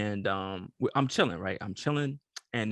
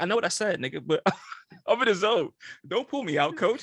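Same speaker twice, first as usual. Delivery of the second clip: a touch higher and louder, hyped; 8 semitones higher, 3 dB louder than usual. Retold or imitated. Telling his boy at the club to back off, mild hype. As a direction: brush off your friend with swagger.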